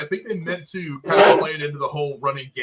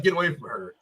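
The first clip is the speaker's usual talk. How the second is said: understated mimicry of a bumbling actor; awkward line reading. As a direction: imitate a fumbled hero line, underplayed. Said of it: "it was so awkward and bumbling".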